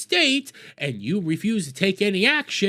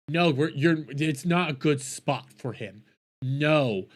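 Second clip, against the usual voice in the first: bad Somali accent; 5 semitones lower, slower than usual. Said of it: "That's a bad Somalian accent".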